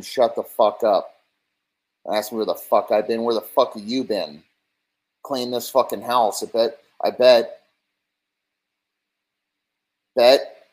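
ranting husband, hammed up into a shout; mock angry husband. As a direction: build it to a yell. Drunk husband berates his wife.

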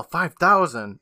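half-hearted outraged exclamation; retold group yell. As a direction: imitate kids exclaiming in disbelief. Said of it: "The kids all yell".

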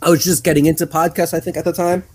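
stifling a burp; burpy, holding back a belch. Real, not acted. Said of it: "I'm sorry, I keep on burping".

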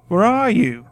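high, loud call across a room. Acted. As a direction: shout into the darkness. Matt calling out in dark.

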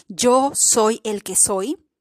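lightly solemn, drawn-out quote; voice of the Creator. Retold or imitated. The Creator telling us who he is, slow and measured. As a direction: quote the Creator slowly, word by word. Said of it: "el creador, nos dice".

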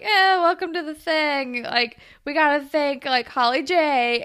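mock announcer at a hoedown; Sav. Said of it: "makes an announcement".

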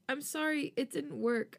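high, tearful and soft; softly crying to her husband. A narrator's reading. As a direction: cry it out gently. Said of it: "I cry softly".

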